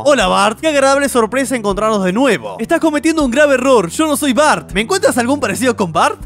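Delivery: Bob Patiño voice. Acted. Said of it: "Bob Patiño".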